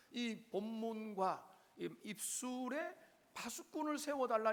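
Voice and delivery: normal talking voice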